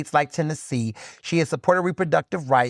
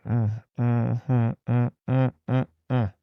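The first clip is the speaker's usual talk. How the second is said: disapproving hum; 4 semitones lower, slower than usual. Acted. Hums judgment about Travis Kelce.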